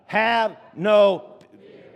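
drawn-out, emphatic call; really loud. Shown as a demonstration. Preacher prompting congregation to repeat, really loud. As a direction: say it slowly for everyone to repeat. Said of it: "say it really loud".

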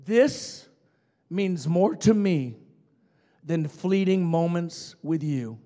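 loud, slow, deliberate; firm declaration. Retold or imitated. Preacher rebuking the woman at the bank, loud and slow. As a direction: spell it out word by word. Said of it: "And I said".

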